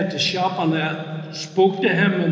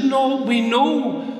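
slow, higher-pitched stress on "know"; firm correction; 5 semitones higher, slower than usual. Retold or imitated. Preacher voicing Paul's answer to doubt, firm correction. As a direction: stretch "know" with a decided fall.

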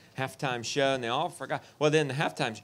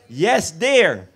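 dutiful yes dear; 4 semitones higher, 9 dB louder than usual. Acted. Husband's dutiful stock answer.

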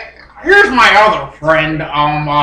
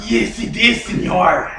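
lightly put-on Cuban accent; 4 dB quieter than usual. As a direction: answer as a Cuban character, accent on. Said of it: "I'm from Cuba".

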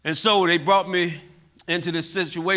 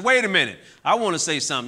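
retold outburst; 4 dB louder, faster than usual. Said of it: "I'm an angry young man".

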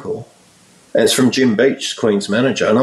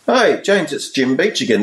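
higher, friendly manager calling back; imitating a friendly English manager, higher; 5 semitones higher than usual. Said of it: "his tone is a bit different. He's friendly".

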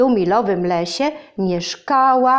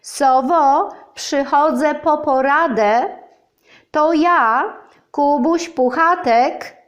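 calling out high and loud at the door; 5 semitones higher than usual. Acted. Pooh calls out to Owl at her door, loud call. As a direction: call up to the house, raising the voice. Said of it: "zawołał donośnym głosem".

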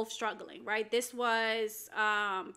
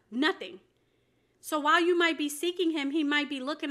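raised, insistent preacher's delivery; emphatic preaching; 4 semitones higher, 4 dB louder than usual. Real, not acted. Preacher urging viewers to open their hearts, emphatic preaching. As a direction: press each point home to the listener.

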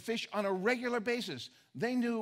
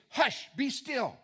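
commanding calm; 4 semitones higher, 4 dB louder, much slower than usual. Retold or imitated. Jesus rebukes the storm.

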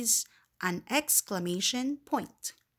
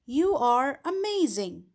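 a bright, raised exclamation on YOU; exclaimed example; 3 semitones higher, 4 dB louder than usual. Shown as a demonstration. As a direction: say it like real praise. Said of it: "This is an example".

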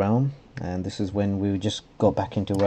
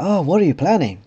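higher, louder nosy put-on voice; pry in a high silly voice; 9 semitones higher, 6 dB louder than usual. Realm owner asking about the project, silly voice. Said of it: "silly voice on".

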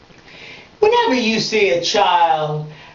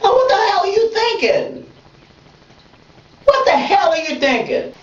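emotional outburst; 11 semitones higher than usual. Real, not acted. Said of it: "I'm so emotional today".

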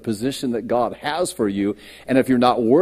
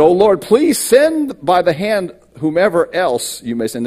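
desperate plea; 6 semitones higher, 4 dB louder than usual. Acted. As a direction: beg the Lord to send someone else. Moses begging to be excused.

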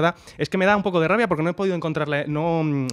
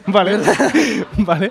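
laughing; 3 semitones higher, 4 dB louder, slower than usual. Real, not acted. Laughing at co-host.

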